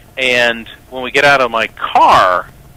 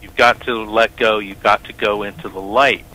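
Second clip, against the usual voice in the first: calm reassurance. Retold or imitated. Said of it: "I said".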